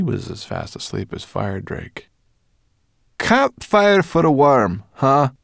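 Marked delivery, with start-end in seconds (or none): 3.2-5.3 slow, louder, huffy echo of the insult; crossly. Acted. Sorrel repeats Ben's insult crossly, slow and loud. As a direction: mutter it back, offended.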